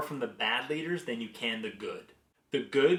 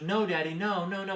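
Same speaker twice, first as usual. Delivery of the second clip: higher, lightly imitated toddler refusal; little daughter; 7 semitones higher than usual. Daughter refusing to repeat the moment, imitated protest. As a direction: imitate a small child refusing. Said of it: "And she goes".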